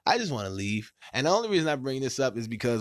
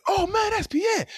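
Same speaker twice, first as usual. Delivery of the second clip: high falsetto take on his friend's voice; a high squeaky friend spotting Pierre; mock friend; 4 dB louder than usual. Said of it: "one of 'em said".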